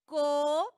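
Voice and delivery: "Co-o-pe-rar" in four loud, separate syllables, last one strongest. Shown as a demonstration. Teacher showing the class the tonic syllable, "Co-o-pe-rar" in loud separated syllables. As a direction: break "Co-o-pe-rar" apart, pausing between syllables, stressing RAR. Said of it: "La sílaba tónica está ahí".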